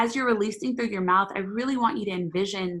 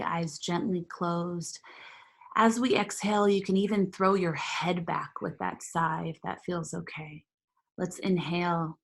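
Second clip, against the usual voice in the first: guided meditation. Acted. Leads a meditation.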